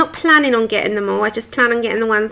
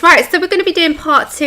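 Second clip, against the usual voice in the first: slightly nasal, stuffy voice; 4 semitones higher, faster than usual. Real, not acted. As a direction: talk through a blocked nose. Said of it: "If I sound a bit nasally".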